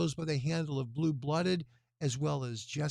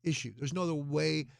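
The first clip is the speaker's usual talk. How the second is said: tired. Real, not acted. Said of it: "Sorry, a little tired".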